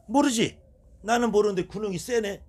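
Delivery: mock shaman reply. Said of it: "그리고 제가 물어봐요".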